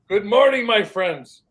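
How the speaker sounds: loud, high good morning call; hollered greeting. Retold or imitated. Retelling the clip again, hollered greeting. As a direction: holler it out across the yard. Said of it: "guy hollers".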